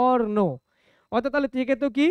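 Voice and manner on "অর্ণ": অর্ণ with a clear "or" before "no"; pronunciation demo. Shown as a demonstration. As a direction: model অর্ণ, sounding out its r. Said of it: "এরকম ভাবে একটা উচ্চারণ হচ্ছে".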